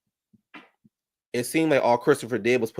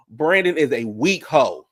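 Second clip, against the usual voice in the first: emphatic. Real, not acted. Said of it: "repeated for emphasis".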